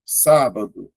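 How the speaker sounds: "sábado" measured out in three syllables. Shown as a demonstration. Teacher showing three vowels, "sábado" in clear syllables. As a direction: sound out "sábado" for counting. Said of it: "três sílabas".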